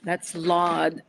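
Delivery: "Lord" said as "Lawd", no r, long open vowel; Lawd pronunciation. Shown as a demonstration. Showing viewers her mother's "Lord", said "Lawd". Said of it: "L A W D, not L O R D".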